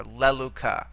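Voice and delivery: "leluca" accented on its first syllable, le; stress on antepenult. Shown as a demonstration. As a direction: stress the LE of "leluca", then fall away. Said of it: "all the way back to the antepenult".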